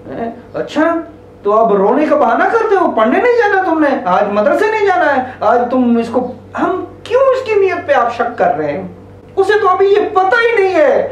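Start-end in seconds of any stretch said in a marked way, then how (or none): 0.1-6.2 suspicious scolding. Shown as a demonstration. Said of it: "मेरा normal जवाब क्या होता".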